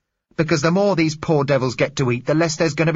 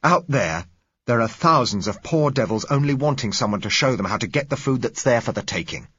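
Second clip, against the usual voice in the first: loud, high, furious outcry; violent passionate plea; 10 semitones higher, 7 dB louder than usual. Acted. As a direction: scream it at them, outraged. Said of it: "The man's voice was violent".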